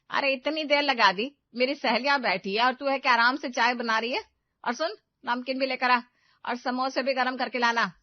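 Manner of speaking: scolding. Acted. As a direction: tell her off in front of the guests. Mother-in-law scolds in front of friends.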